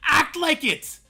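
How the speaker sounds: high, loud and slow, each word driven home; angry scolding. Real, not acted. Streamer telling grown adults to act like it, angry scolding. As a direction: tell them off at full volume.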